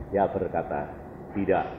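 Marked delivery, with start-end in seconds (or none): 1.3-1.7 low, hushed divine no; quiet refusal. Retold or imitated. God refusing the pleading believer, quietly and low. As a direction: say it softly and deep, final. God's retold calm refusal.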